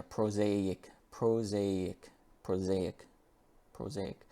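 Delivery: "prosaic" as pro-ZAY-ik, repeated and fading; modelled "prosaic". Shown as a demonstration. Teacher repeating the word for students to copy. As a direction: drill "prosaic", stress on ZAY. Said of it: "that's the pronunciation there".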